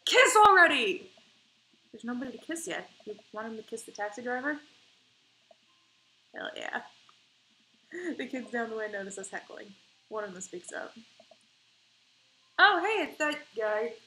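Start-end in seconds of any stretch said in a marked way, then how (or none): 0.0-1.1 loud, high, slow shout at the screen; heckling shout. Acted. 12.6-13.9 put-on loud, high, slow kid's call; a teenager calling out across the theater; teen voice.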